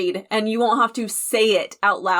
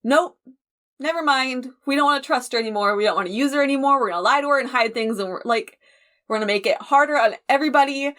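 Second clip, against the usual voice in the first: fast, breezy mock dismissal; quick, careless mock brush-off; mock dismissive group; faster than usual. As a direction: rattle it off like they couldn't care less. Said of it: "we're just gonna be like".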